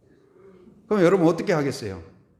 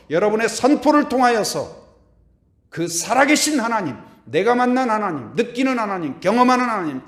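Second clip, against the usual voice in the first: higher and louder with each line; rising preaching; 5 semitones higher, 6 dB louder than usual. Acted. Pastor blessing his congregation, building preaching. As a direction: build the chant to a peak.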